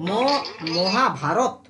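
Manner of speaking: মহাভারত slowly, ending shut on ত; stopped final consonant. Shown as a demonstration. Teacher showing pupils a closed syllable, stopping on the final consonant. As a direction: stretch মহাভারত, then stop dead on রত. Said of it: "থেমে যাচ্ছি, রথ".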